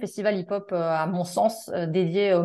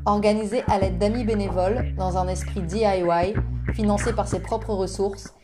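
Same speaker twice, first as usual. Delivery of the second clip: scripted presenter introducing a guest over music; podcast intro read. Acted. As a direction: read it out evenly, like a prepared introduction. Reads a prepared presentation. (lecture posée d'une présentation écrite)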